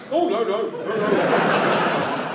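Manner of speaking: half-laughed, breathy "no, no"; laughing protest. Retold or imitated. Comedian squirming at the teen's story, laughing out his protest. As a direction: protest while giggling.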